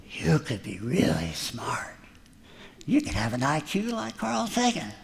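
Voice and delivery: soft, sly tempter; sly serpent. Retold or imitated. Serpent tempting Eve, soft and sly. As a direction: coax her softly like a sly snake.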